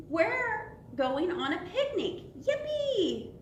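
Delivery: put-on high, gleeful storybook boy; high-pitched happy whoop; excited cheer. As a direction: cheer like a kid off on an outing.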